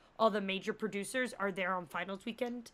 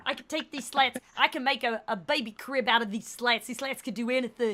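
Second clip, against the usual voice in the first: proud, a bit louder boast; boasting Gary voice; 4 dB louder than usual. Retold or imitated. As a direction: brag about it with pride.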